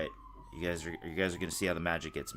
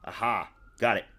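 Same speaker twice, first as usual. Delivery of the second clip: aha discovery; 3 semitones higher, 4 dB louder than usual. Real, not acted. Finally fixes the stream.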